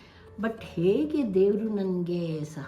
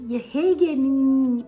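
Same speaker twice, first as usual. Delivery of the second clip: tearful; 7 semitones higher, 9 dB louder, much slower than usual. Retold or imitated. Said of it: "ನಾನು ಸುಮ್ಮನೆ ಅಳ್ತಾ ಇದ್ದೆ".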